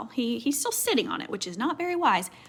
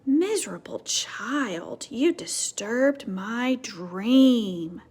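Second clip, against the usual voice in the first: put-on grumpy old man; much slower than usual. Old man woken from dream.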